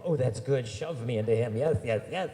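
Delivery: loud, giddy agreement; excited schoolgirl. Retold or imitated. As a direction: squeal yes at the plan. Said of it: "Your friend's like".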